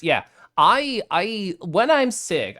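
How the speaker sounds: usual speaking voice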